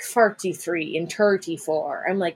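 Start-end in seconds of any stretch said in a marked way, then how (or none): 0.0-1.0 mock Irish "farty-three" for forty-three; imitated Irish vowel in "farty"; Irish accent. Mocking accent she hates, Irish "farty-three". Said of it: "And they say, like". 1.1-2.0 mock Irish "turty-four," T for TH; imitated Irish hard T in "turty"; Irish accent. Mocking accent she hates, Irish "turty-four". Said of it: "And they say, like".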